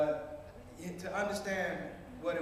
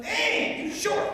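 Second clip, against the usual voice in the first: very high, loud mock amazement; astonished blurt; 14 semitones higher, 7 dB louder, much slower than usual. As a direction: squeal it out in exaggerated disbelief. Clerk blurts on seeing his height.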